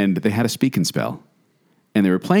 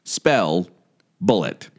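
lower, slightly ominous toy voice, words set apart; robotic voice; 4 semitones lower, much slower than usual. Retold or imitated. Co-host telling a scary story, imitating the toy's robotic voice. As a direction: imitate a talking spelling toy. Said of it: "this really robotic voice".

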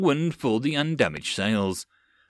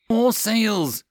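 much higher, louder shout; called alarm; 10 semitones higher, 4 dB louder than usual. Acted. Sailor warning of the enemy fleet, shouting. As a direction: cry out the sighting.

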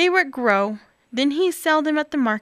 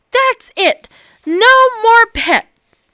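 fed up; 10 semitones higher, 9 dB louder, slower than usual. Acted. Bob fed up, shouting.

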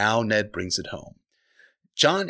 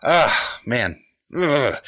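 usual speaking voice

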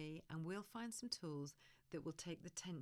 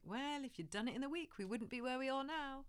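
told-you-so lecture; 6 semitones higher, 3 dB louder than usual. Retold or imitated. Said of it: "avoid the temptation to point out the obvious".

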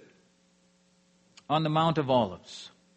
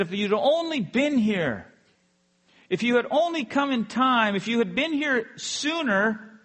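higher, emphatic retold lament; pleading reproach; 5 semitones higher, 3 dB louder than usual. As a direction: plead as a grieving sister, retold from the pulpit. Sisters reproach Jesus, grieving.

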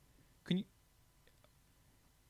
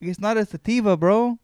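high, loud mocking echo; mocking whine; 8 semitones higher, 8 dB louder than usual. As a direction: parrot him back mockingly. Mocking friend's claim.

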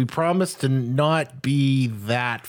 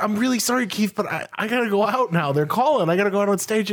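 higher, apologetic actress voice; polite excuse; 7 semitones higher, faster than usual. Retold or imitated. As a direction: politely brush him off, pitched up. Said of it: "And she's like".

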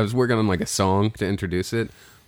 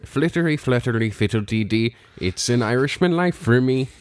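put-on Irish accent; 3 semitones higher than usual. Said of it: "I was trying to do".

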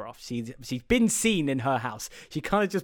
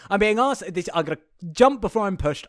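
worked-up quitting rant; 4 semitones higher, 4 dB louder than usual. Retold or imitated. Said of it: "calls up her boyfriend and goes".

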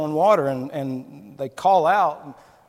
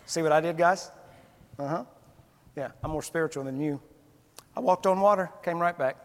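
boastful Peter. Retold or imitated. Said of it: "he'd be like".

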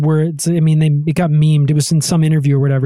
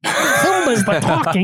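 David Lynch impression; 5 semitones higher, slower than usual. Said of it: "the David Lynch quote".

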